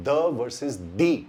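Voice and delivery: slow contrast of "the" as thuh and "the" as thee; thuh versus thee. Shown as a demonstration. Teacher contrasting the two pronunciations, slow. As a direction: say both forms of the, slowly set apart. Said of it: "दोनों pronunciation पे".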